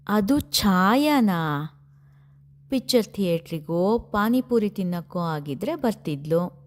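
joking tease. Acted. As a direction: stretch the words to rib a friend. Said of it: "ಹಾಸ್ಯ ಮಾಡುತ್ತಾ ಛಾಯಾಳನ್ನು ರೇಗಿಸಿದಳು". (ನಿಧಾನವಾಗಿ ಎಳೆದು ಹೇಳುವ ತಮಾಷೆಯ ರೇಗಿಸುವಿಕೆ)

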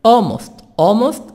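"almost" with no L sound, ɔmost; silent L. Shown as a demonstration. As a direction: leave the L out of "almost". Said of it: "L silent".

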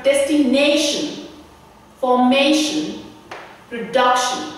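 "destination", "formation", "production" each stressed just before the "shun" ending. Shown as a demonstration. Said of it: "we stress the syllable just before the shun sound".

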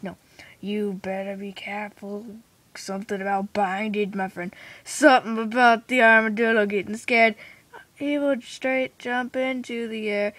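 hushed storytelling, a little sing-song; softly told silly story. Acted. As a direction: tell a nonsense tale under your breath.

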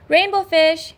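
high little fish calling. Acted. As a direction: call after him, eager. Little fish calls after him.

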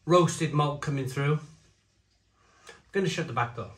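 echoey room sound; as if in an echoing hall; big hall echo. Real, not acted. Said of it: "Sorry for the echoing".

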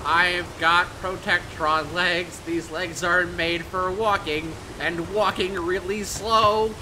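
slow robot voice. Pretend. Playing robot with Protectron legs.

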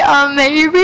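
imitating a weird drawn-out voice; funny voice. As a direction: stretch it out in a silly rising voice. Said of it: "that was a weird voice".

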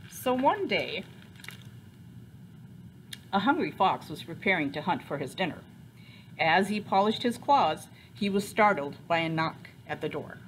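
put-on animated read-aloud to children; story narration. A narrator's reading. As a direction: tell the story with lively emphasis. Reads picture book aloud.

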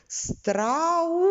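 страус, у held clearly; stressed U. Shown as a demonstration. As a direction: sound out the у in страус. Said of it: "вимовимо його так, щоб ми чітко чули".

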